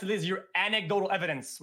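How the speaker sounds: ordinary talk, nothing marked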